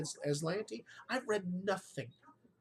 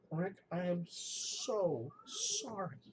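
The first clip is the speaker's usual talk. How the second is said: heartfelt apology; much slower than usual. Retold or imitated. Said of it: "she looked at me and she goes".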